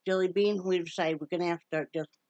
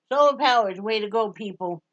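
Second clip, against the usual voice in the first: excited; 8 dB louder than usual. Real, not acted. Excited exclamation.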